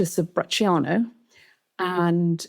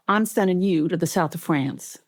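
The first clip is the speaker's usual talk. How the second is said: lightly voiced Southern boss; character voice with a Southern accent. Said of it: "He came out very Southern".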